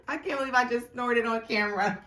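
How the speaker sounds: laughing at your own snort; amused disbelief. Real, not acted. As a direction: say it on the edge of laughter. Just snorted on camera, laughing fit.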